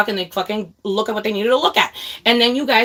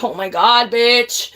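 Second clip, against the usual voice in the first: angry gamer complaint; 3 semitones higher, 4 dB louder than usual. Retold or imitated. Streamer re-enacts blaming her friend for dying, angry. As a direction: berate the teammate who died, fed up. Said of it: "I would get so angry".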